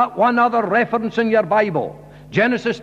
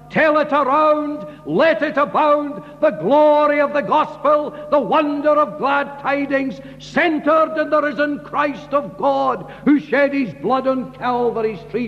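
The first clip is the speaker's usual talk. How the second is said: higher, exultant preaching; rousing proclamation; 5 semitones higher than usual. Real, not acted. Preacher rousing the congregation about glad tidings, exultant. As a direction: lift it up like a hymn of praise.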